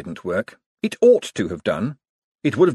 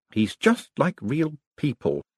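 father's voice; 5 semitones higher, slower than usual. A narrator's reading. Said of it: "said the voice of his father".

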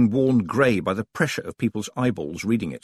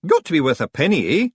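higher, loud Scots voice; bargain, then threaten in raised Scots; threatening Scots stranger; 6 semitones higher, 4 dB louder than usual. Acted. Stranger scolding a hidden companion, loud higher Scots.

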